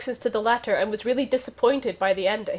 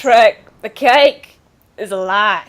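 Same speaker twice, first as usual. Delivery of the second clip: slow, heavy pronouncement; slow dramatic declaration; 2 semitones lower, 6 dB louder, slower than usual. Pretend. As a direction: drag out every word gravely. Drunk dude philosophy voiced.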